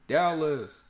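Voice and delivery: loud, high hype call; city shout-out. Pretend. Hump day city shout-outs.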